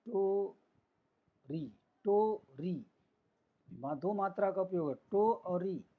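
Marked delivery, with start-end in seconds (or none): 0.1-2.9 slow two-syllable demo. Shown as a demonstration. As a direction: pause between टो and री. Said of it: "थोड़ा सा रुक के आराम से पढ़ेंगे".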